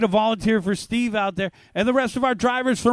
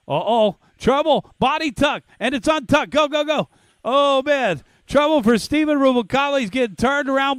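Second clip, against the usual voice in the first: excited; 4 semitones higher, 3 dB louder than usual. Real, not acted. Crash during race call.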